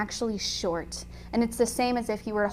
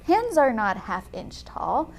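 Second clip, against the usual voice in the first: slow, mildly insistent protest; lightly acted slow disbelief; insistent brain; 4 semitones higher, slower than usual. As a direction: voice a brain stubbornly objecting, drawn out. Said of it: "because we're like".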